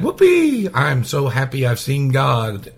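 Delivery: a high squealed whoopee, hammed-up glee; mock joyful Isaiah. Preacher mocking a wrong happy Isaiah, hammed-up glee. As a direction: ham up a giddy, overjoyed prophet. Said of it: "No, that wasn't the reaction at all".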